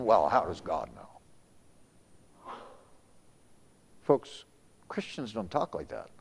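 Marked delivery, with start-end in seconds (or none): 0.0-2.5 low, slow mocking question. Preacher voicing the scoffing world, mocking. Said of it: "that's a mocking statement".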